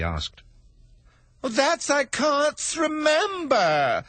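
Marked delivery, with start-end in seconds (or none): 1.4-4.0 high, slow, shouted panic; frantic hatter. Acted. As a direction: blurt it out in a panic. Hatter frantic before the king.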